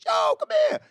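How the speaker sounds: high, loud call from across the road; calling across the street. Retold or imitated. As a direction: shout him over the traffic. Mix calls him over.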